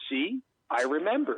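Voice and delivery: understated deadpan delivery. Retold or imitated. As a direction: deliver it dryly, without emphasis. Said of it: "deadpans and goes".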